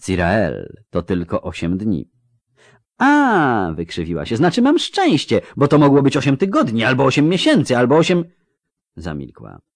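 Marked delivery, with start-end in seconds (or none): 3.0-8.2 high, bitter mock gratitude; sarcastic. Ciri mocking the elf's eight days, sarcastic. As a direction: spit the sarcasm at him.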